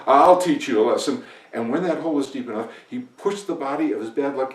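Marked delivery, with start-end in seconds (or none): 0.1-1.2 loud, vengeful declaration; angry threat. Acted. Farmer vents at his bad luck, loud angry threat. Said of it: "muttering to himself".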